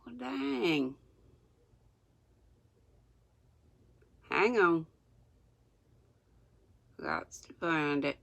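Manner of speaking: reading without teeth in; gummy toothless speech. Real, not acted. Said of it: "I'm gonna sound crazy reading without my teeth".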